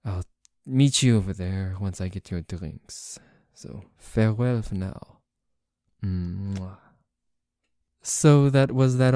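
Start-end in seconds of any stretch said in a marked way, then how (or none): 0.0-6.8 a lightly put-on stereotypical French accent; a hammed-up French accent with a blown kiss at the end; cringy French accent. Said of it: "my very cringy stereotypical French English accent".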